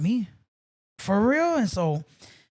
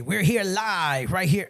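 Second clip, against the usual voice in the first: radio DJ voice; slower than usual. Retold or imitated. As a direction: lay on the raspy on-air voice. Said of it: "I did a show".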